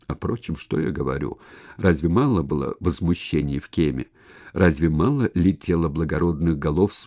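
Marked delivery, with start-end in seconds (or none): none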